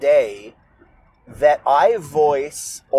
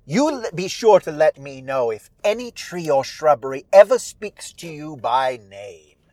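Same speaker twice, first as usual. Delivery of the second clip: Holcomb. Acted. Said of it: "Holcomb says".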